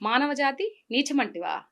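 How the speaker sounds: lightly voiced Telugu mythological hero, proud and indignant; a light take on a classic mythological hero's rebuke; NTR film dialogue. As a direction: declaim the old NTR speech with measured grandeur. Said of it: "ఒక్కటి వదలండి".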